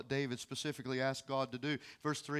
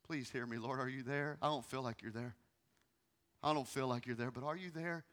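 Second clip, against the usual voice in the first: soft, low pleading; quiet, searching plea; hushed desperate prayer; 4 semitones lower, 9 dB quieter than usual. Retold or imitated. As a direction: ask God quietly if he is there. Voicing David's desperate prayer.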